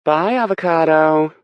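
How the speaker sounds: high, loud, sing-song taunt; calling after her. Acted. Rachel calls a bratty farewell after Aspen, loud. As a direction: call it across the room. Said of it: "Rachel calls after her".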